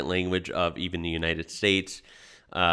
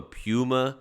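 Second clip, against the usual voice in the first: normal talking voice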